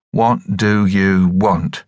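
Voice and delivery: slow, low wooden monotone. Acted. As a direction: say it stiff and wooden. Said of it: "in a wooden voice".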